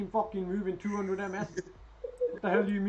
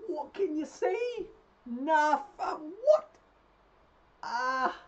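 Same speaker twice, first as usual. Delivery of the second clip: high, wailing mock sob; fake crying; 9 semitones higher, slower than usual. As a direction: pretend to bawl, hamming it up.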